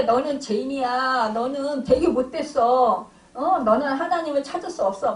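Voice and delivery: 조금 더 크게, 몰아붙이듯 "너는 죄인이야"; 가볍게 흉내 낸 사탄의 비난; 정죄하는 사탄. Pretend. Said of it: "그 사탄은". (사탄이 신자를 정죄하는 비난조)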